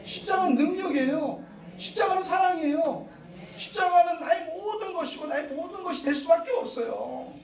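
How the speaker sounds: fervent, rising sermon delivery; preaching. Real, not acted. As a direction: preach it to the congregation with conviction. (힘있는 설교조)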